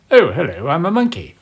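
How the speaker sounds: swooping pitch, jumping high on monkey; talking monkey. Acted. Showing friends how the monkey talks, swooping character voice. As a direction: play a chatty cartoon monkey with a swooping voice. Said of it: "either talks like this".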